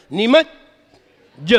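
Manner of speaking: निमज्ज slowly with a long held ज्ज; teacher gives the full doubled निमज्ज; full double j. Shown as a demonstration. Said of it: "ये पूरा हुआ".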